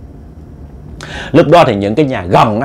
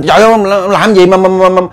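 higher-pitched startled stammer; retold cry of surprise; startled wife; 7 semitones higher, 3 dB louder than usual. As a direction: blurt it out in alarm, tripping over words. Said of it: "cũng giật mình".

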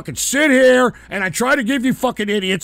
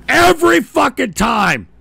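the same words yelled louder, fed up; angry shout; 3 semitones higher, 4 dB louder than usual. Real, not acted. Host fed up with failed calls, shouting. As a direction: blow up on the repeat.

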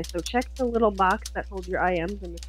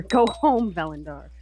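firm command; 3 dB louder, slower than usual. Acted. Acted command to the necromancer.

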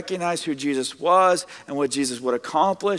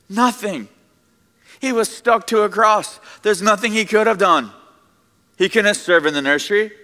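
emphatic; 8 semitones higher, 6 dB louder than usual. Real, not acted. Preacher building emphatic point.

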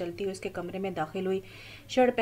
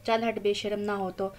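smiling. A narrator's reading. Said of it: "शमाला बेगम मुस्कुरा कर बोली".

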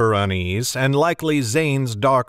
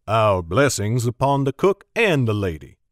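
genial Alburn; 2 semitones lower than usual. Acted. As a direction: bless the cooks like an old soldier. Alburn thanks the servers.

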